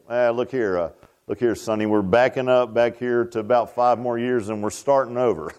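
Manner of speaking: put-on low, folksy parent talking to a child; lightly voiced parent. Parent telling Sonny they are starting over, lightly acted. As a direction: drop the voice a little, mock-instructing a youngster. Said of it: "take our kids and say".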